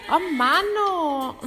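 high, loud whine of frustration; exasperated groan. Acted. Singer annoyed at own cracking note, exasperated. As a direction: moan it, fed up with yourself.

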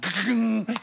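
mechanical rumbling clunk sound; imitated elevator clunk. Storyteller mimics the elevator starting up, imitated clunk. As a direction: mimic an elevator lurching into motion.

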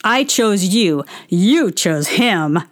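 a hint of Todd, calmly correcting, then slowing. Toddler son correcting his mother, lightly in Todd's voice. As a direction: gently set her straight, lightly voicing Todd. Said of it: "in a very Todd voice goes".

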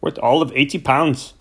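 a lightly voiced Yorkshire farmer pleading his loss; aggrieved farmer. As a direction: complain like a stubborn farmer wanting his money. Farmer Cranford complains to vet.

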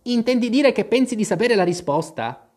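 high-pitched questioning hare; March Hare. A narrator's reading. Narrator voices the March Hare.

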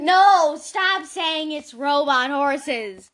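loud no, then slow insistence; drawn-out, fed-up order; exasperated scolding. Real, not acted. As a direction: cut them off loudly. Scolding the other player.

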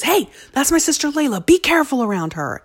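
high, loud called-out warning; imitated protective child. Child warning other kids off his sister, loud and protective. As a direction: shout a warning across the park like a kid.

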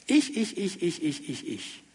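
mock self-absorbed chant, trailing into near silence; fading repetition. Preacher mimicking our I-centred society, fading away. Mimics constant saying of "ich.

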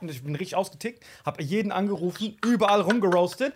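ordinary talk

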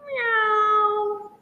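high, loud mock meow; kitten meow. Failed lion pounce answering the lady, high kitten meow. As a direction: squeak it out like a tiny kitten.

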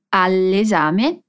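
"all'esame" said very slowly, L gliding straight into E; linked sounds. Shown as a demonstration. Teacher showing students how the sounds link, very slow. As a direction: slowly join al and esame into one word, "all'esame". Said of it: "Note como unimos o som de al mais esame".

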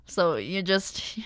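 quick whispered aside. Real, not acted. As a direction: drop to a whisper for a second. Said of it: "unvoiced whisper aside".

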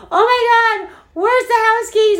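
frantic, hunting for keys; panicked. Retold or imitated. Asking her niece for keys during the fire, panicked and high.

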